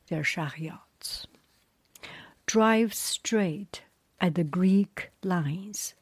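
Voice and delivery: slow, emphatic read-aloud; story narration. A narrator's reading. Reader telling the Iliad to friends, slow story narration. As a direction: tell an epic with deliberate pauses between phrases.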